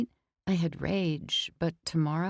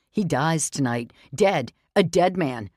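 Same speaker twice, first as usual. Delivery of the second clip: furious threat; 6 dB louder than usual. Acted. Vince vows revenge.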